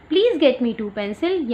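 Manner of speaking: very slow and even; slow read-aloud. Shown as a demonstration. Teacher rereading the girl's request, very slow. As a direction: read it out word by word again for the children. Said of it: "teacher rereads slowly".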